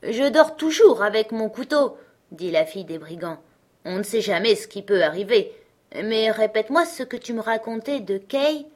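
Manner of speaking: put-on robber girl. Robber girl inviting Gerda to bed, a hint of bossy. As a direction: play the wild robber girl, lightly.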